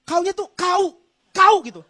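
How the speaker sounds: director showing Medan kau; Medan accent. Retold or imitated.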